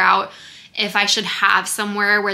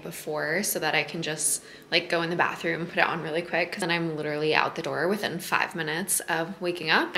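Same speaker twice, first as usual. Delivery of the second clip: hushed, softer and lower voice; quiet at night; 3 semitones lower, 8 dB quieter than usual. Real, not acted. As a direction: speak softly, just out of bed. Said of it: "I kind of have to whisper because Taylor's still sleeping".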